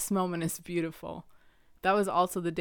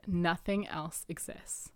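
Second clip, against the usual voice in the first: inner voice; 3 dB quieter than usual. Retold or imitated. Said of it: "a voice came in my head and it said".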